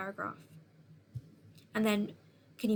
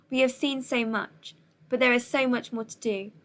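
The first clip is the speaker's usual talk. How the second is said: firm speech; 4 dB louder than usual. Shown as a demonstration. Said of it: "Emphasize every word. Speak slowly and firmly".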